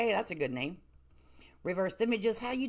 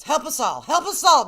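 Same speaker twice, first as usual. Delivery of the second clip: rising louder, higher plea to heaven; exasperated plea; 5 semitones higher, 7 dB louder than usual. Real, not acted. Host exasperated at a viewer, loud mock plea. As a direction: beg for mercy in mock despair.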